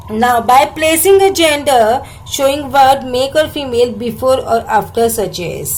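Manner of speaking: slow, deliberate reading of an English textbook line. Shown as a demonstration. Teacher reading the textbook slowly to students. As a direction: read each English word out slowly for the class.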